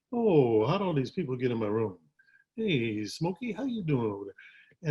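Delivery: impression of a singer. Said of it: "He talked like this".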